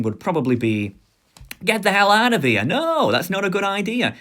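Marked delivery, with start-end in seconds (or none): 1.6-4.2 high, forceful mock outrage; acted outraged refusal. Telling a best friend no to snorting coke, mock outrage.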